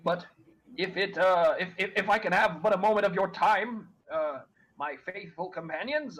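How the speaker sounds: lightly voiced fussy crow, polite and prim; a hint of a prim, pompous bird; talking crow. Crow interrupting the party, lightly voiced prim bird.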